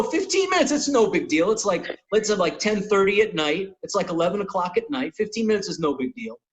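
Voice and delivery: mock it back with a sarcastic lilt; sarcastic mimicry. Comic mocking his own reaction to Cat's fifteen minutes.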